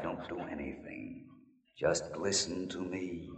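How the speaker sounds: low, slow hushed ghost voice; ghostly whisper. Acted. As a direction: hush it like a haunting spirit. Fake ghost scaring Jerry.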